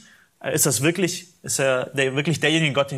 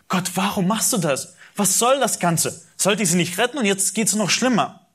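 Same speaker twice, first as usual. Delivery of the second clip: higher, despairing questions; desperate complaint; 6 semitones higher than usual. Retold or imitated. Moses complains to God, high despairing questions. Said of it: "Und Mose ist verzweifelt".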